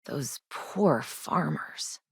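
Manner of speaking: slow, hushed grief for the victims; sickened sorrow. Acted. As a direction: say it haltingly, sick to your stomach. Shocked by boss's crimes against farmers.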